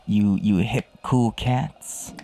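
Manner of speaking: slow, laid-back beatnik drawl. Pretend. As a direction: drawl it like a fifties hipster. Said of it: "I'm talking like a beatnik".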